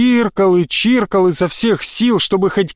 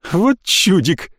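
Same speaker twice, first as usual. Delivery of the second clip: хохотнул; 3 semitones higher, slower than usual. A narrator's reading. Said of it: "хохотнул Ржавый".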